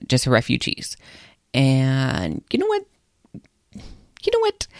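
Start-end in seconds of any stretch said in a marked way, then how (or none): 3.7-4.7 whispery, conspiratorial lead-in; hushed teaser. Real, not acted. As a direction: repeat it in a half-whisper to build suspense.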